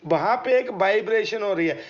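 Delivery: ordinary delivery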